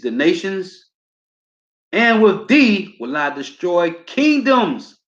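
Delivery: slow, ringing preacher's reading; slow scripture proclamation; preaching scripture. Acted. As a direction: declaim each line slowly like a street preacher. Preacher reads scripture aloud.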